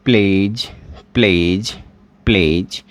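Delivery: teacher sounding out प्लेज; pronunciation demo. Shown as a demonstration. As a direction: model the word प्लेज for the class. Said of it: "तो आप इसका कैसे करोगे?".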